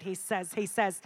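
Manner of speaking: stuck restarting the phrase; stuttered repetition. Real, not acted. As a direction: stumble and repeat the words. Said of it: "A little stutter for a second".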